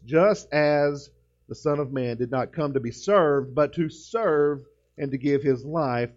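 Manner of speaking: "Just as" read slowly and evenly, no word punched; measured reading of the verse; steady pulpit reading, slowly; slow scripture reading. Shown as a demonstration. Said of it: "You could put an emphasis on just about every word".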